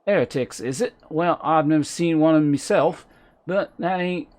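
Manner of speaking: put-on loud low-class accent, silent H's; broad low-class British accent. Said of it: "all H's become silent".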